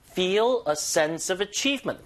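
slow, "Feel" and "achievement" emphasized; marked stress. Shown as a demonstration. Teacher marking stress before listeners hear it, "Feel" and "achievement" stressed. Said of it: "강세 여다 주시고".

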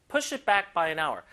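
slow, both "push" and "back" stressed. Shown as a demonstration. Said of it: "양쪽에 힘 줄게요".

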